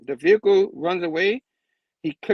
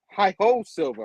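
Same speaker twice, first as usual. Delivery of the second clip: half-hearted call; 2 semitones higher, 3 dB louder than usual. Retold or imitated. First try before apologising.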